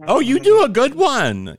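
slow loud high duck squawk; Donald Duck voice. Pretend. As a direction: mimic a cartoon duck. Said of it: "Here's what I heard".

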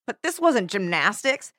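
measured book read-aloud, lively on the quotes; story narration. A narrator's reading. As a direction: narrate a teen thriller with mild drama. Reads a novel passage aloud.

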